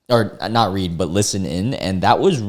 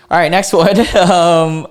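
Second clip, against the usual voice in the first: louder, higher, fast restart; brisk upbeat; 7 semitones higher, 6 dB louder than usual. Real, not acted. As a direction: shake it off and move on briskly. Energetic transition.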